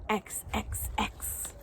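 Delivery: X, X, X as a voiceless ks hiss; breathed x. Shown as a demonstration. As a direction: whisper the x sound. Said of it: "X says X".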